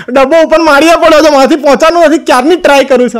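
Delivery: mock-helpless wifely complaint. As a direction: plead that you just can't reach it. Wife pleads she can't reach.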